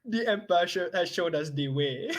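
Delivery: put-on a light Swahili accent. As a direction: keep the Swahili accent going. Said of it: "say it in a, uh, Swahili accent".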